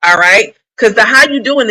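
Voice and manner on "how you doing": drag queen voice. Retold or imitated. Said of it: "is said in a drag queen voice".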